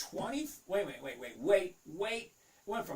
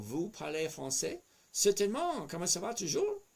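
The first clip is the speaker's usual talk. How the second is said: put-on French accent; 4 semitones higher than usual. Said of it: "I like your French accent".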